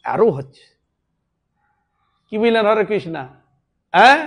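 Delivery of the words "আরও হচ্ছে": soft and sinking, a tree telling its pain; softly voiced wounded tree; hurt tree's voice. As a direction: speak low and hushed, as if hurting. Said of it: "তখন বলে".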